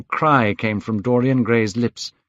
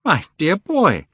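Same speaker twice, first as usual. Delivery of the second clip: crying out; 10 semitones higher, 3 dB louder than usual. Acted. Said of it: "Hallward cried".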